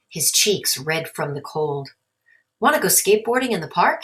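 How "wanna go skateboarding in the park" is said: quick, upbeat invitation; eager question. Acted. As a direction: Mike eager to ride. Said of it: "he asked".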